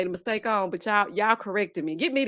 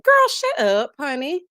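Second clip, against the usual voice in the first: loud high sassy shout; high scolding yell; 4 semitones higher, 5 dB louder, slower than usual. Real, not acted. Scolding the wife on the show, loud high shout. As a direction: snap at her to hush.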